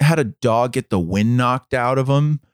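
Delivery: a hint of a flustered woman's voice; her worried question. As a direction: jump way up in pitch for the anxious dog owner. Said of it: "she said".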